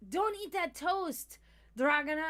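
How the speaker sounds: high, loud, stretched mock warning; imitated warning call. Cook warning coworker off food, imitated call. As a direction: call it out urgently, hamming it up.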